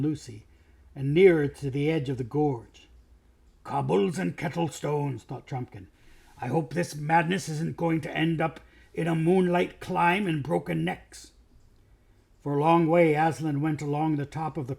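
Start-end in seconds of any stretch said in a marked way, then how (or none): 3.6-11.3 grumbling dwarf. Acted.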